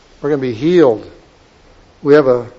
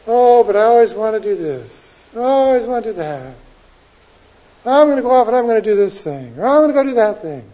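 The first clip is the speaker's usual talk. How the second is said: high, insistent mock whine of protest; self-willed protest; 7 semitones higher than usual. Preacher mimics someone insisting on their own plans, high protesting voice. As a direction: plead your own plans, pitched well up.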